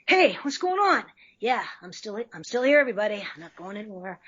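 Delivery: put-on casual cool boy; Spike voice. Shown as a demonstration. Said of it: "Spike is just like".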